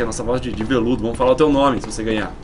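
velvet voice. Pretend. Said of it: "anunciar com a nossa voz aqui".

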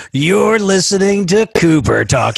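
slow, drawn-out announcer read; podcast intro voice. Shown as a demonstration. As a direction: announce the show like a radio intro. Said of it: "that's actually me doing the voice".

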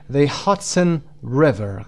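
slow "Hudson River", strong "Hud" and "Ri"; stress on HUD and RI. Shown as a demonstration. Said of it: "قسمت اول هاد".

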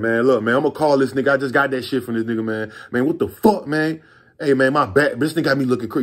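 playing outraged. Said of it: "I'm playing the whole".

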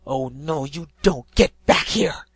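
building to a loud yell. Acted. Griffin yelling at the pegasus flying off, building yell. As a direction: grab her back with your voice. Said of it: "she yelled".

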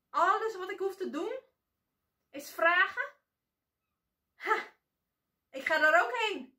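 high, loud and grabby, wanting everything; greedy demanding girl. A narrator's reading. (hebzuchtig meisje, hoog en luid eisend)

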